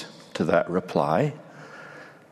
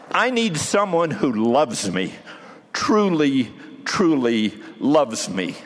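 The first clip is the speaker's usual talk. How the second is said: a hint of a pleading master, building in fervour; gently rebuke, then rally him to the task; a teacher urging his disciple on the shore, building to a plea; lightly voiced Jesus, earnest; 2 semitones higher than usual. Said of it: "Jesus responded, perhaps saying something like".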